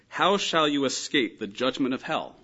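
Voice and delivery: slow, forceful reading of HOW SHALL YOU ESCAPE; emphatic rhetorical question. Acted. Jesus speaking to the Pharisees, slow emphatic question. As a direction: press it home as a warning. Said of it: "what Christ is doing in that context is saying".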